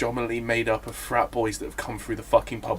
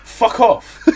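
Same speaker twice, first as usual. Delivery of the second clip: half-laughing mock telling-off, higher; put-on exasperation at a journalist; mock exasperated rant; 6 semitones higher, 6 dB louder than usual. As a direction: play an irritated politician swatting a journalist. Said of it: "he'll just be like".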